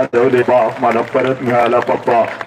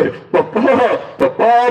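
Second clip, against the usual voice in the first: high, crying call for papa; child calling out; 8 semitones higher, much slower than usual. Acted. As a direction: wail it like a lost child.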